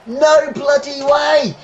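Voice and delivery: disbelief. Real, not acted. Reacting to a bad decision.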